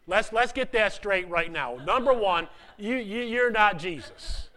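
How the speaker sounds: loud emphatic point, laughing. Real, not acted. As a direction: hammer it home with a chuckle.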